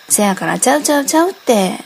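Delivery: ちゃうちゃうちゃうって said quickly with a falling Kansai tune; insistent Kansai reply. Acted. Insisting again about the dog, hurried Kansai reply. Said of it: "面白い関西弁も".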